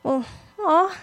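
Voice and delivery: high, sing-song cooing don't be mad; mock sweet comfort. Shown as a demonstration. Preacher teasing the congregation, high and sugary. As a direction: coo it condescendingly. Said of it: "Do you see how that's not helpful?".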